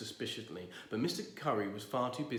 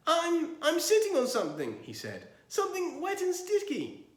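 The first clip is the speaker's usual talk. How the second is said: dismayed; 6 dB louder than usual. Acted. Dismayed neighbour voiced.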